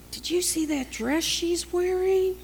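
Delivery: high-pitched, scandalised busybody act; catty gossip. Acted. Churchgoer gossiping about a woman's dress, high and scandalised. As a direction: put on a nosy gossip's high voice.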